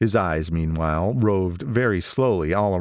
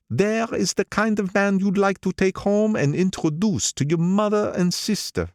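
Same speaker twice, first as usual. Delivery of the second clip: put-on much higher, proud old racketeer; old gangster voice; 11 semitones higher than usual. Old gangster praising Gatsby to the narrator, higher proud voice. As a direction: boast about him, pitched up.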